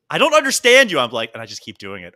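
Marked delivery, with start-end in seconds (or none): 0.1-1.0 imitating roommate. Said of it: "she just goes".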